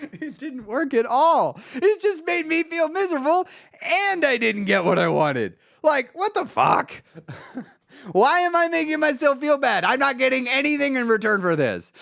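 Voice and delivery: high, exasperated rant; exasperated outburst. Acted. Man railing at his own failed self-punishment, exasperated. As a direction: protest in a high, incredulous voice.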